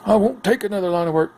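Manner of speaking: high, put-on voice of a card character; gruff card guy. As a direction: voice the proud pyromancer. Card character voiced, far timbre.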